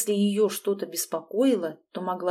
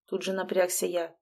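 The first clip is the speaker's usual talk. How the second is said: ordinary delivery, nothing marked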